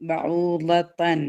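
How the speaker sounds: slow tajweed repeat; slow recited repeat. Shown as a demonstration. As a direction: draw the word out gently. Repeats word slower, softer.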